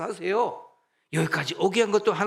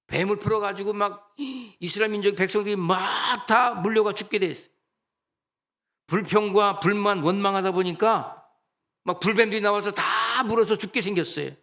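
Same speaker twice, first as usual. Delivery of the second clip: louder, driving sermon climax; fiery preaching; 4 semitones higher, 5 dB louder than usual. Acted. Pastor warning the congregation, preaching louder at full force. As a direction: drive the warning home from the pulpit.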